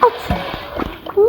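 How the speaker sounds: slow, breathy begging whisper; will the shot in under your breath; pleading whisper. Real, not acted. Gamer urging a teammate to shoot, slow whisper.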